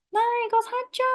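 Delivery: put-on high childish demand for a toy; a child pleading to be bought something; whiny child. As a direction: beg like a little kid in a shop.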